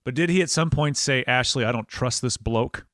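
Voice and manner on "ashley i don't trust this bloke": low-key, lower Australian imitation; bad Australian accent. Host guesses what runner's boyfriend told her, bad Australian accent. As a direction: put on a rough Australian accent, lightly. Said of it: "doing my bad Australian accent".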